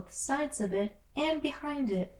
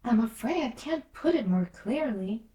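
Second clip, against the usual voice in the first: polite; 4 semitones higher than usual. Acted. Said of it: "Alice replied very politely".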